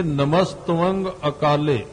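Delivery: slow, careful ਨਮਸਤਵੰਗ with a nasal ending; nasal bindi demo. Shown as a demonstration. Preacher quotes the scripture to teach its dot, ਨਮਸਤਵੰਗ slow and nasal-ended. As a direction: sound the dot in ਨਮਸਤਵੰਗ through the nose, slowly. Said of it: "ਇਹ ਜਿਹੜੀ ਬਿੰਦੀ ਹੈ".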